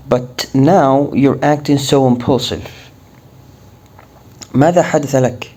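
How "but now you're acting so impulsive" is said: slow, careful model sentence; slow English model line; slow teaching read. Shown as a demonstration. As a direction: read it slowly for learners.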